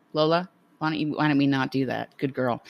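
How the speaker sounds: soft, polite aside to a dog; gentle dog discipline. Real, not acted. Owner correcting her dog Lola, gently. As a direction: quietly reason with the dog. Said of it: "this is how I discipline dogs".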